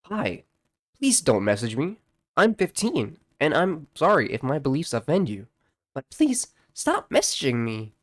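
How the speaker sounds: a hint of a timid fifteen-year-old pleading; mock teen reply. Reading the fifteen-year-old's reply.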